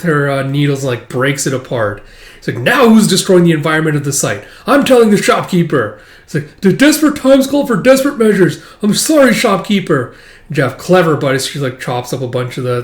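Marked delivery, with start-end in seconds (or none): 2.6-6.0 higher, louder indignant telling-on; a hammed-up prim tattletale; mock tattling. Yor tattling. 6.6-10.1 put-on much higher, louder apologetic girl; a falsetto mock-sorry heroine; put-on Yor voice.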